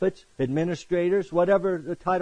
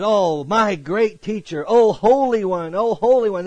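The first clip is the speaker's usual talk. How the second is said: fawning greeting; 5 semitones higher, 5 dB louder than usual. Retold or imitated. Crowds hailing the teachers in the marketplace, mock fawning. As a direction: hail him like a flatterer in the market. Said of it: "So they loved".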